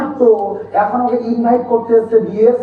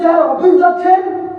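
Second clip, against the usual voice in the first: raised-pitch mock-respectful question; teasing; 4 semitones higher than usual. Old playmates ribbing him about the office, teasing. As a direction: call out a teasing "sir". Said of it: "কারণ আমি জানি চাটছে আমাকে".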